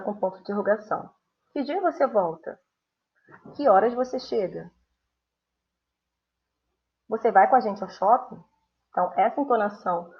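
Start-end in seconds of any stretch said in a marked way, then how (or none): 1.5-8.4 rising question tune, lifted pitch; teacher demonstrating question tune; question intonation. Shown as a demonstration. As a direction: ask it with clear rises. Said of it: "essa entonação da pergunta".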